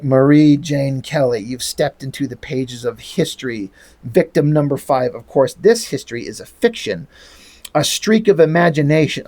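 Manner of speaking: low, mock-sinister villain. Mister Gone addressing his victim, low villain voice.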